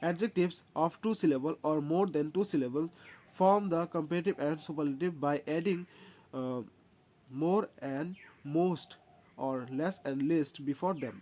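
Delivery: very slow, each word laid out for copying; slow rule dictation. Acted. Teacher dictating a rule to students, slow and deliberate. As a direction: dictate the grammar rule slowly. Reads rule aloud slowly.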